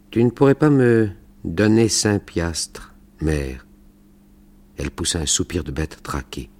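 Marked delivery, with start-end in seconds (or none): 0.1-3.7 slow, high, pleading whine; whiny voice. Acted. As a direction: beg like a sulky little boy. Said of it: "dit-il d'une voix pleurnicharde".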